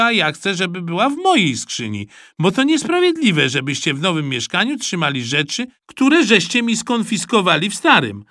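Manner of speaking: put-on high, loud childish protest; boy complaining to his mother; indignant boy. A narrator's reading. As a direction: argue it's unfair. Boy pleading his case.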